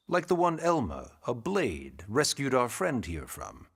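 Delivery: "rescued" given deliberate extra weight; stress on rescued. Acted. Secretary reminding a recruit of a debt, stress on "rescued". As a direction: lean pointedly on the word "rescued". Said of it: "Emphasis on the word rescued".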